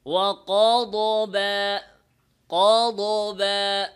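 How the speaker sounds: ওয়াকদবা slow, with a bounced dad; wrong echo sound. Shown as a demonstration. Teacher demonstrating the wrong bounce. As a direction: show the qalqala mistake. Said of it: "যেমন".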